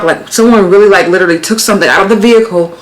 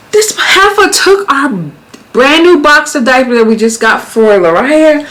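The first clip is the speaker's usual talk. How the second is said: high, slow indignant complaint; pissed; 6 semitones higher, slower than usual. Retold or imitated. Venting that a stranger stole the diapers, slow high outrage. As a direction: drag it out, outraged. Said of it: "So I was pissed".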